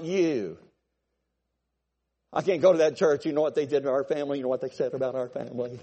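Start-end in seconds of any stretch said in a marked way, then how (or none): 2.3-5.8 mock complainer. Mocking complaining churchgoer.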